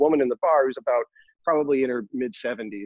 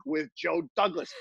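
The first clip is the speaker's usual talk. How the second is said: put-on raised, lightly Brooklyn old woman telling her tale; old Brooklyn lady; 3 semitones higher than usual. Old accountant telling him about John Wayne, in a cheeky raised old-lady voice. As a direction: lean into the cheeky old lady's memories, laughing. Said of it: "thick Brooklyn accent".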